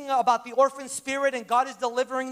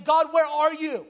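anguished cry; 3 semitones higher, 4 dB louder, slower than usual. Retold or imitated. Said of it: "I'm saying".

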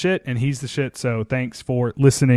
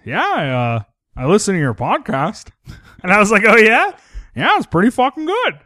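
Lucas impersonation; 5 semitones higher, 4 dB louder than usual. Retold or imitated. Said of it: "your Lucas impersonation".

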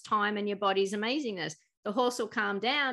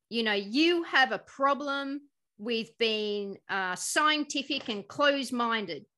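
slow condescending rebuke; 2 semitones higher, slower than usual. Retold or imitated. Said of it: "And she goes".

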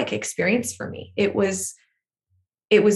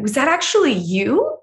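higher, rising question of disbelief; incredulous; 6 semitones higher than usual. Retold or imitated. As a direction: imitate someone astonished to find out. Studio staff stunned, retold.

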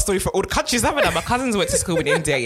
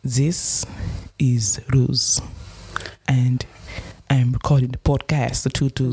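put-on halting South African accent; 3 semitones lower, slower than usual. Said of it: "That is a South African".

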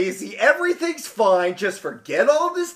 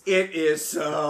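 gentle voice; 4 semitones lower, 5 dB quieter, slower than usual. Acted. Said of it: "said in a gentle voice".

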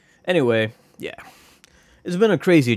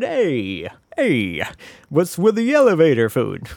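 mock standup comic; 4 semitones higher than usual. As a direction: deliver it like a cheesy club comic. Standup comic bit parody.

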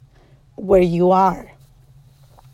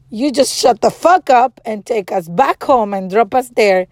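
retold angry order; 4 dB louder than usual. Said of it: "he was so scared of me".

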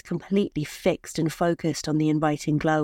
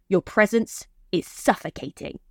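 cold husband voice. Acted. Husband rejects wife.

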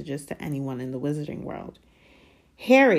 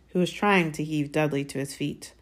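plain reading voice

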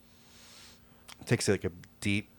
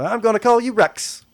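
high, loud urchin voice fawning over the dog; cheeky urchin sweet-talking a giant dog; street kid voice; 14 semitones higher, 12 dB louder than usual. Acted. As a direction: coo at the big dog like a scrappy street kid.

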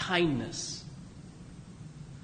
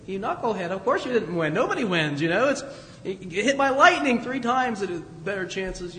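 mock scolding. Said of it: "you would look at him and say".

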